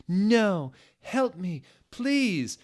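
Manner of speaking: high, shrieking plea for help; terrified scream. A narrator's reading. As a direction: beg in panic. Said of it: "Brittany screamed terrifiedly".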